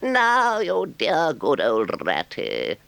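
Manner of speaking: high, slow, gushing toad voice; boastful Toad. A narrator's reading. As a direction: gush over the visitors. Toad's lines.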